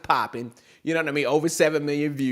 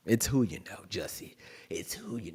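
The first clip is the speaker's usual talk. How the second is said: soft unvoiced whisper of a secret; 7 semitones lower, 10 dB quieter than usual. Quiet whispered aside.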